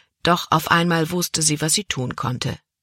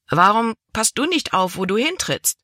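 angry retort; 5 semitones higher than usual. Acted. Cabin boy angrily throws her question back at Libby. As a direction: snap back at her, tit for tat.

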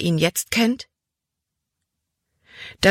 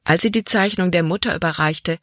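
ordinary delivery

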